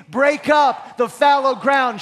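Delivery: "Break up the fallow ground" called out loud with the crowd; rallying call-and-response; shouted call. Shown as a demonstration. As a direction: lead the congregation in a shout. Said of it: "Shout it with me".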